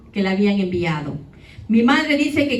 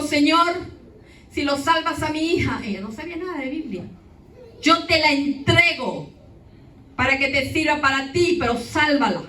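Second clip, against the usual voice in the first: mother's plea; 5 semitones higher than usual. Retold or imitated. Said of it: "y clamó a Dios y le dijo".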